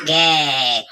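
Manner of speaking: low, drawn-out bird call; imitated animal call. Shown as a demonstration. Host shows boss an animal sound, calling low. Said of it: "suara deh".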